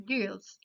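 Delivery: "gills" with a Spanish ee sound; Spanish I vowel. Shown as a demonstration. Teacher giving examples of anglicisms, "gills" with Spanish ee. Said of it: "se conserva su sonido vocálico en español".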